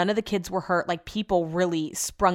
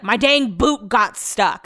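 put-on raspy older lady, drawn out; slow mock old-lady rasp; super raspy; 2 semitones higher, 4 dB louder, slower than usual. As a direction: imitate her slow raspy complaint. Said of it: "in a super raspy voice".

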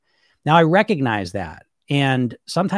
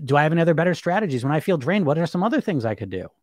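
curious investigator. Pretend.

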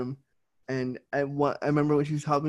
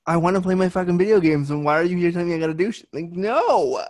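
louder, fast, griping about chores; imitating a fed-up kid; grumbling in someone else's voice; mock whiny outburst; 3 semitones higher, 5 dB louder than usual. Voicing brother's complaint.

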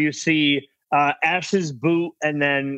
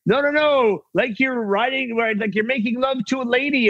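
higher, lightly voiced French wrangler; French wrangler Rudy; 6 semitones higher than usual. Wrangler instructs actor on riding, lightly voiced French coach. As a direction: coach him like Rudy would. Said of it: "He's like".

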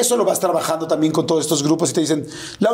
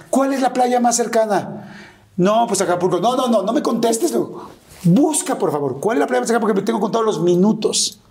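high, rushed, urgent questions; frantic urgency; 6 semitones higher than usual. Retold or imitated. Son frantically asking his office for the nearest beach, pitched high. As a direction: demand an answer now, counting the minutes.

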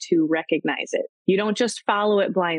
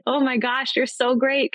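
higher, gushing mock infatuation; lightly hammed-up smitten dater; starry-eyed gushing; 7 semitones higher than usual. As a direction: play someone smitten after one date. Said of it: "with stars in their eyes going".

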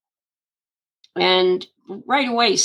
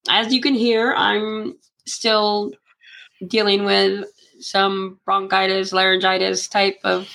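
frog voice; slower than usual. Real, not acted. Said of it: "I sound like a frog".

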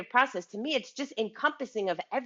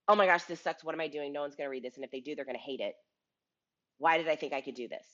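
despairing self-doubt; 5 semitones lower, faster than usual. Retold or imitated. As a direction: let it drop into despair. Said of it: "roller coaster of emotions".

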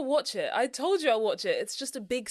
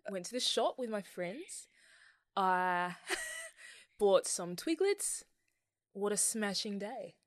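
put-on Australian accent; 5 dB quieter than usual. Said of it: "I do an Australian".

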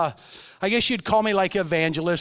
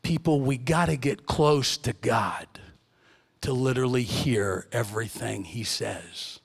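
hushed whisper to the congregation; 10 semitones lower, 5 dB quieter than usual. Real, not acted. Preacher urging the congregation to get close to God, whispered. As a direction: draw them in with a whisper. Preacher drops to intimate plea.

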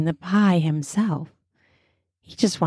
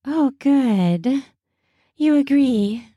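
chuckling; 6 semitones higher, slower than usual. A narrator's reading. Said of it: "she says with a chuckle".

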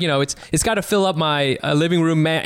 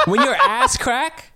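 laughing; slower than usual. Real, not acted. Laughing through a joke.

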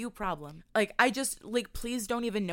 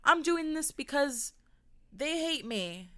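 mocking hater-driven voice; 5 semitones higher, slower than usual. Mocking hater-motivated person.

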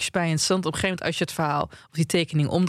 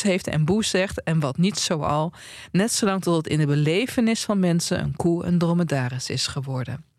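reading aloud. Acted. Reads book passage aloud.

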